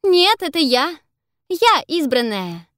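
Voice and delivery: high, loud insistent cry; shout. Acted. Another illusion calling to the monsters, loud shout. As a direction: shout to claim you're the one. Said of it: "кричит другая фальшивая видимость".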